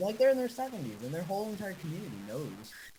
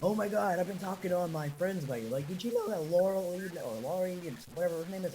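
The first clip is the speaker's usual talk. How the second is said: higher, louder, gushing grandfather; imitated excited grandpa; 4 semitones higher, 3 dB louder than usual. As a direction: lightly act an eager grandpa sharing news. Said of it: "he'll be like".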